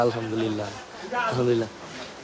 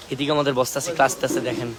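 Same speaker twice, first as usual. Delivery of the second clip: speaking softly; 3 semitones lower, 5 dB quieter, faster than usual. Real, not acted. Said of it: "আমি একটু আস্তে আস্তে কথা বলবো".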